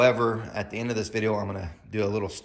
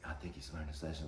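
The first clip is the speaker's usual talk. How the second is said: much softer, lower hesitant voice; timid manager; 6 semitones lower, 15 dB quieter than usual. Retold or imitated. Manager gently backing off to the mother, quiet. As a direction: mumble it, trying to calm her. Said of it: "the manager's like".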